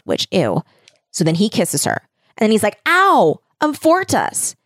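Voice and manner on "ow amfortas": high, hammed-up cry of pain; mock anguished outburst. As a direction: cry out high as if suddenly wounded. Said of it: "like, crying out".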